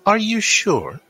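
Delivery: high, anxious noble asking; worried nobleman. Acted. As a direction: fret as a nervous lord. NPC Gabriel questioning Delilah.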